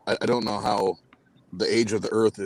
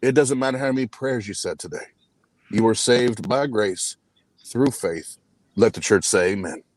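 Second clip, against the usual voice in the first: preaching; 2 semitones higher than usual. Acted. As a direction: preach to the congregation. Preaches to the saints.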